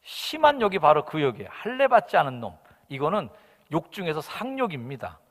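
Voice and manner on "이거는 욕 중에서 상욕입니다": ordinary delivery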